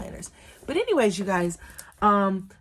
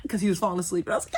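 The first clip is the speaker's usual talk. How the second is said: whisper; much faster than usual. Real, not acted. Baby falling asleep while nursing.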